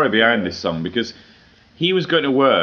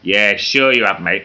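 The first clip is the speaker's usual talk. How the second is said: sneering Scouse retort; a light Liverpool accent, sarcastic; mock Liverpool seller scoffing; 3 dB louder, slower than usual. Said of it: "he had a Liverpool accent".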